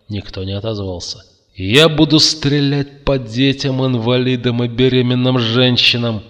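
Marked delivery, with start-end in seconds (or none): 1.6-6.2 high, loud threat; warning. A narrator's reading. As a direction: call out a warning to everyone. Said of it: "предупредил Макс". (громкое предупреждение)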